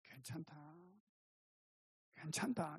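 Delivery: soft, soothing reassurance; comforting. Retold or imitated. The Lord comforting His worried disciples, softly reassuring. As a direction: console gently in a hushed tone. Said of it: "이렇게 위로하시고".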